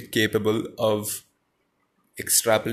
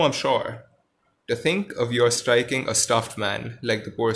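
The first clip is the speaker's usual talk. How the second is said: story reading. A narrator's reading. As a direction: read the lion and Dorothy scene to the class. Reads Oz story aloud.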